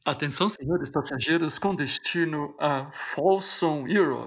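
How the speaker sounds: airport announcement. Pretend.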